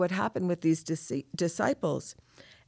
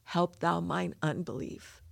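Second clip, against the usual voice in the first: crying quietly; 5 dB quieter than usual. Real, not acted. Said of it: "So I'm crying, and, and those tears are real".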